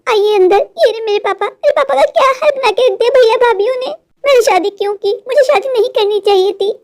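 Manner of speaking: a lightly voiced young wife, anxious and upset; worried young wife. Wife telling her husband about her father, lightly upset. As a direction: voice a daughter fretting over her sick father.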